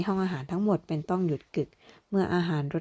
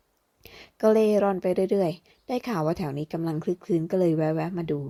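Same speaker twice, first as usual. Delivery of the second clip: slow, lazy drifting thief voice, lightly done; lightly voiced easygoing thief; slower than usual. Thief Madas casually explaining why he came, slow easygoing voice. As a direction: amble through it like a carefree rogue.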